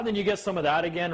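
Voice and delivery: ordinary talk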